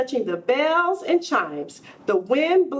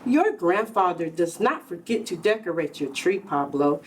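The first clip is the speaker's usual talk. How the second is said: lower, calm mother voice; reassuring mother; 6 semitones lower than usual. Acted. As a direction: soothe the boy like a patient mama.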